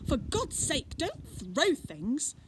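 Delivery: high, loud and slow plea; pleading shout. Acted. Girl in the bush begging Fred to stop, loud slow plea. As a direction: beg him loudly to stop throwing. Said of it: "The voice said".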